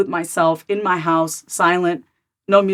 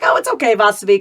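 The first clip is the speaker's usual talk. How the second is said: coddling father voice; 2 semitones higher than usual. Retold or imitated. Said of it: "my father's voice kinda let me off the hook".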